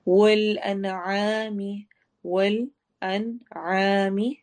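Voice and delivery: very slow chanted tajweed recitation; teacher reciting verse for students; Quran recitation. Shown as a demonstration. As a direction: intone each syllable slowly.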